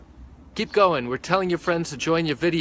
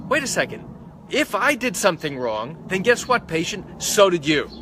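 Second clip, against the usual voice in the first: higher, louder gotcha tone; blame-shifting doctor; 4 semitones higher, 3 dB louder than usual. Retold or imitated. Doctor blaming the patient, smug gotcha voice. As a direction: turn it back on the patient, smug.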